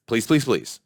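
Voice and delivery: pleading repeated please, each please stressed; begging please. Shown as a demonstration. Begging viewers to subscribe, stressing please. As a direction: lean hard on every please. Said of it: "Emphasis on the please".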